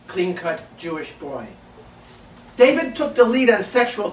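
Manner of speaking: measured verse reading with pauses between phrases; spoken poetry, each phrase set apart by pauses; poem recital. Acted. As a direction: read it as a poem to a live audience. Recites own poem to audience.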